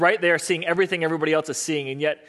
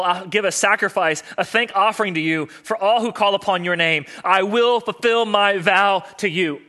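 raised voice, solemn vow; resolute declaration; 2 semitones higher, 4 dB louder than usual. Acted. Jesus recalls the psalm before the cross, declaring resolutely. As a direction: declare it firmly, building to a louder finish.

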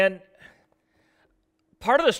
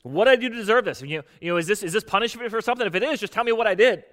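higher, exasperated demand; frustrated; 4 semitones higher, faster than usual. Retold or imitated. Job demanding of God why he suffers, frustrated and higher. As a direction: voice Job's mad frustration, pitched up. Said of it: "He's mad".

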